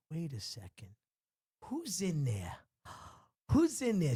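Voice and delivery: gasping, rising alarm; suddenly spooked, wait who's there; startled. Retold or imitated. Girl startled by puppet voice.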